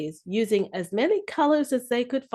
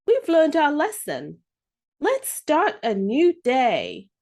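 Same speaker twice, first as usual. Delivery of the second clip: earnest promise; 4 semitones higher, 4 dB louder than usual. Acted. Children promising crayons.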